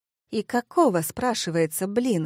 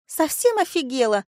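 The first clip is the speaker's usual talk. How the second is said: flaring up; 6 semitones higher than usual. A narrator's reading. Vika soaked by Marina, flaring up angrily. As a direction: flare up at being splashed. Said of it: "взвилась бывшая подруга".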